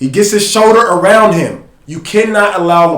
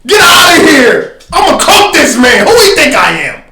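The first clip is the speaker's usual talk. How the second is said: imitating LeBron; 10 semitones higher, 6 dB louder than usual. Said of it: "LeBron is like".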